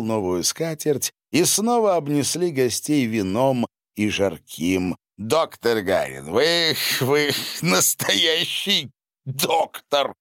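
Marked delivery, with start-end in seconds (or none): 5.2-10.1 slow, high, awed praise; admiring exclamation. A narrator's reading. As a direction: gush with stammering admiration. Восхищённый возглас графа Саввы. (восхищённый возглас)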